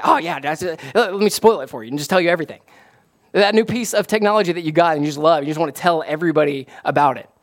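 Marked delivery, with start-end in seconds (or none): 0.0-2.6 acted eager gushing, rushing on; super excited. Fan gushing to a friend about a show, super excited. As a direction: play a fan bursting to tell it all, fast. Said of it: "like, super excited".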